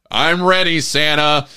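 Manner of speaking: loud, high mock-eager call; eager toy voice. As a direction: play a hopeful toy calling to Santa. Voices a hopeful misfit toy.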